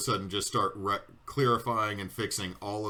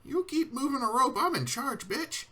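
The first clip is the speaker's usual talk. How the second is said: Kiwi voice. Acted. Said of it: "And Kiwi".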